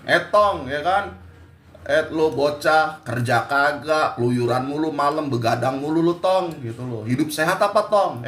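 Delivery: lightly voiced nagging mother; scolding mother. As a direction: scold him like a fed-up Betawi mom. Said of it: "sampai ribut sama mak lu".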